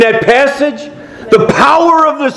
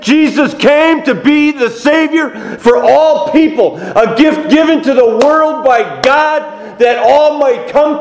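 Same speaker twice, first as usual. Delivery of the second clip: raised-pitch, fervent sermon delivery; impassioned preaching; 4 semitones higher than usual. Real, not acted. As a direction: proclaim the good news to the congregation. Preaches at full force.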